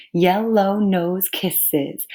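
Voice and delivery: YELLOW NOSE KISSES very slowly, one beat each; counting syllables. Shown as a demonstration. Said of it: "count with my fingers as I talk".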